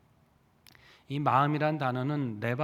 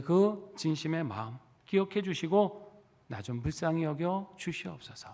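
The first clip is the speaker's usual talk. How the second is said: humble pleading prayer. Retold or imitated. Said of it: "회개하는 기도". (조용히 애원하는 회개 기도)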